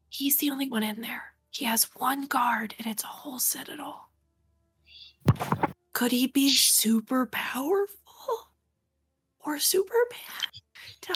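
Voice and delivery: quiet whisper. Speaking to the group rather than the character, quiet whisper. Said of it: "quietly whispering to the group".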